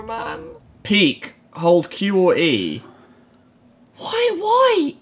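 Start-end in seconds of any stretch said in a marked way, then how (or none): 4.0-4.9 high scared squeak. Real, not acted. Scared exclamation.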